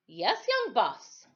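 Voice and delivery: slow, lightly voiced old man calling; a hint of an old sailor calling back; calling from afar. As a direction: answer slowly from a distance. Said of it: "he called from quite a distance".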